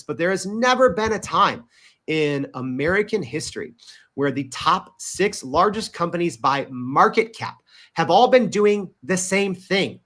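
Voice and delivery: measured, with pauses between phrases; deliberately slow. Real, not acted. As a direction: spell it out carefully, phrase by phrase. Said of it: "I'm gonna speak slowly here".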